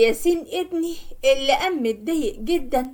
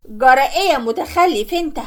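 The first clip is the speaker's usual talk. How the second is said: put-on louder, scolding yell at the boy; 4 dB louder than usual. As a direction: snap at him loudly for ringing the bell. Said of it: "وقعدت تزعق جامد". (زعيق عالي بعصبية)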